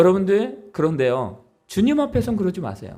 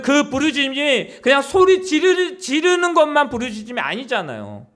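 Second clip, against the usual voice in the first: ordinary delivery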